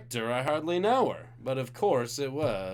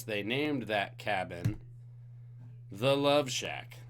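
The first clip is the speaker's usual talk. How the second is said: slow dramatic reveal of the cabin's name; slow suspense build; 3 semitones lower, slower than usual. Shown as a demonstration. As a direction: draw it out, slow and teasing.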